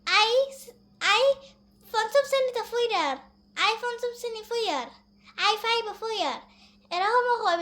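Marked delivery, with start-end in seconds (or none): 0.1-6.4 Barishal accent, a touch higher; playful Barishal dialect demo. Shown as a demonstration. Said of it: "বরিশালের ভাষায় কি তা কয়". (উঁচু সুরে বরিশালের টানে)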